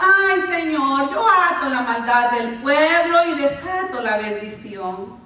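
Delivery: drawn-out mocking "Ay, Señor" plea; mocking prayer. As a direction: parody a showy binding prayer, slowly. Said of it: "Muchas veces lo usamos así". (oración burlona y alargada)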